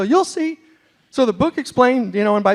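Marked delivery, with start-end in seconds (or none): 0.0-0.6 teasing Texans. Retold or imitated. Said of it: "And they go".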